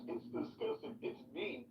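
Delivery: breathy whiny mimic of her crying; mock her as a crybaby. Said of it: "then she cries".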